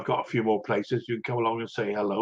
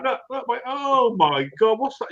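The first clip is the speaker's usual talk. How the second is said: retold alarm; 9 semitones higher than usual. Retelling alarm to wife.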